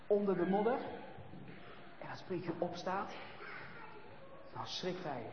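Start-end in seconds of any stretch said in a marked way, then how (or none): 2.0-5.2 hushed shock. A narrator's reading. Quiet shock.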